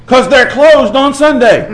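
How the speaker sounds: put-on high, slow child's voice with a laugh; little girl's answer. Preacher quoting a little girl's punchline, high and slow. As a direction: voice a small girl's innocent reply.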